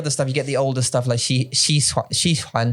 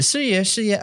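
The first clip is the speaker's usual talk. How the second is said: put-on Taiwanese accent; 6 semitones higher than usual. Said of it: "Stop saying it".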